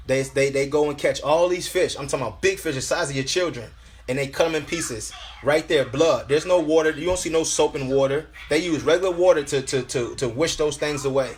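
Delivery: preacher testifying, pitched above chatting voice; insistent sermon delivery; emphatic preaching. Real, not acted. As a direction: press the point on the congregation. Resumes preaching after personal aside.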